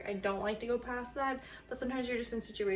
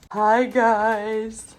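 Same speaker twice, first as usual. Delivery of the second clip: pet talk; 2 semitones higher, 11 dB louder, much slower than usual. Real, not acted. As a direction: gush over the dogs like a happy owner. Greeting her dogs at home.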